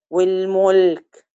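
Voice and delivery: والملك with short u, slow. Shown as a demonstration. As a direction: clip the م in والملك to a short vowel. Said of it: "في فرق بين مو". (الملك بضمة قصيرة)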